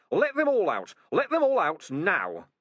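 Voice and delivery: very high, loud furious rat shout. A narrator's reading. Rat demanding the caged rats freed, shrieking. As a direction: scream the order. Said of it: "he shouted up to Keith".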